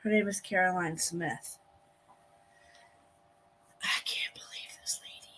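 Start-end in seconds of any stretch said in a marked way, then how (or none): 3.8-5.3 whisper. Real, not acted. Hushed aside during court hearing.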